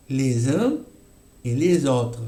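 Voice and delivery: "les uns" then "et les autres" linked with z. Shown as a demonstration. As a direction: split into two linked chunks. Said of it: "hacemos les uns". (enlace separado en dos partes)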